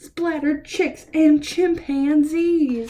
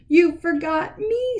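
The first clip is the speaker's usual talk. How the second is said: a light squeaky rat voice, higher; 6 semitones higher than usual. Acted. Reading to kids, the rat squeaking at the busy waiter. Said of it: "squeaked a rat".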